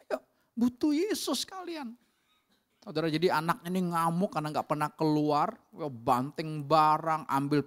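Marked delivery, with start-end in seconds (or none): 0.1-1.9 urging call. Retold or imitated. Preacher urging the family.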